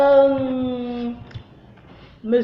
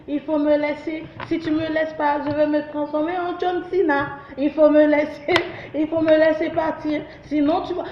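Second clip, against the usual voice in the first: a higher, lightly voiced frog making threats; angry talking frog; 4 semitones higher than usual. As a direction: play the cheeky frog warning the hunter. (grenouille menaçante, voix un peu plus aiguë)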